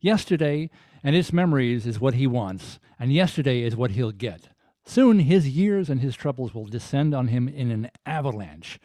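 measured TV narrator intoning an eerie introduction; dramatic prologue read. Acted. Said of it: "If you could give that a read".

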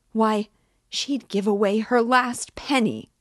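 outraged tirade near breaking; hysterical tirade. Acted. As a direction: defend Sonia in a frenzy.

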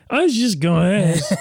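laughing through a retry; giggling as you restart the question. Real, not acted. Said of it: "I said that like a drunk guy".

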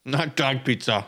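talking while eating; words round a bite of food; mouth full. Real, not acted. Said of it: "Sorry, I'm eating on mic".

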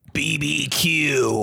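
slow, savoured B B Q; drawn-out reverence. Acted. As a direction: say it like a sacred word. Every dude reacting to barbecue.

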